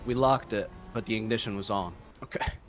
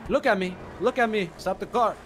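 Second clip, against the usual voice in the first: raised, high-pitched indignation; indignant outburst; 6 semitones higher than usual. Pretend. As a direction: demand it, pitched well above your talk. Partner indignant, demands car stop.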